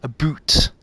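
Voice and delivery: "a boot" with a long oo, as mock Canadian "about"; "a boot" as an exaggerated Canadian vowel; stereotyped Canadian "about". Shown as a demonstration. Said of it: "the really stereotypical".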